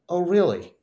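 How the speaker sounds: a mock-indignant vow to win; defiant retort. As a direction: throw it back at him, sure of winning. Defiant retort to doubting friend.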